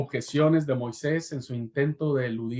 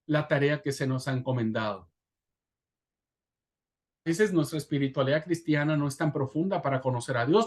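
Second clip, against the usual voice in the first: normal talking voice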